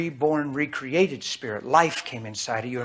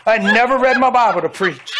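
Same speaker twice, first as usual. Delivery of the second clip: full-force preaching; 7 semitones higher, 8 dB louder than usual. Acted.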